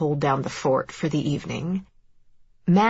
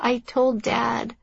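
put-on high, slow child's voice; worried little boy; 7 semitones higher, slower than usual. A narrator's reading. Boy owns up to his mother, worried child voice. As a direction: admit it slowly in a small high voice.

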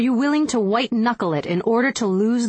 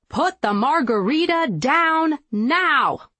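drill sergeant yell; 6 semitones higher, slower than usual. Pretend. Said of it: "hear me yelling".

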